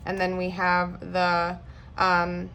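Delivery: stalling through a brain freeze. Real, not acted. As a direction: lose the word mid-sentence, brain freeze. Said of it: "I got a brain freeze there".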